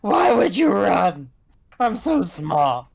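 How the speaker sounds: out of breath. Acted. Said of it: "clutching his knees, just breathing".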